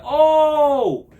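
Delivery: sudden high loud oh; shouted oh, high and loud; retold shout. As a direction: blurt it out in a burst. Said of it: "I said".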